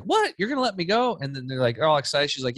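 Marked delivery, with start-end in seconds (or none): 0.0-1.2 squealing up high in disbelief; shocked teen. Retold or imitated. Daughter stunned mom says yes, squealing surprise. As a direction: shriek it out high, can't believe it. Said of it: "And your daughter's like".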